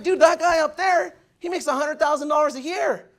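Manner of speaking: a sudden eureka to himself; telling himself the truth, fired up; excited realization. Retold or imitated. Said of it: "I'm like".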